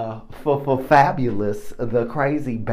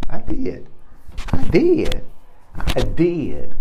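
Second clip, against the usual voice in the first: high mock wail; 6 semitones higher, 9 dB louder, slower than usual. Insisting he cried, joking.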